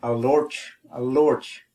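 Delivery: a lorch said clearly, final ch sound; Irish word demo. Shown as a demonstration. Teacher models a lorch for learners, careful and clear. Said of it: "For speaking, we say".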